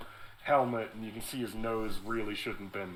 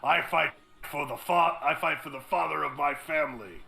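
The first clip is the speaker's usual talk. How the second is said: defiant villain speech; 4 dB louder than usual. Acted. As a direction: proclaim it with fanatic conviction. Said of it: "cornered NPC's defiant speech".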